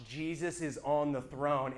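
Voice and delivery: hushed, dreading "Jesus is on the throne". Retold or imitated. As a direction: say "Jesus is on the throne" slowly, quiet and afraid. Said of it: "another part of me that was like".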